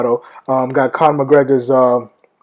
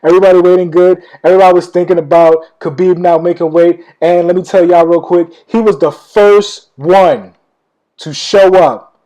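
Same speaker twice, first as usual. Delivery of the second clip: laughing into higher, louder excited talk; excited, raised voice; 3 semitones higher, 5 dB louder than usual. Real, not acted. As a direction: gush with real excitement, pitched up. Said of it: "I'm just so excited right now".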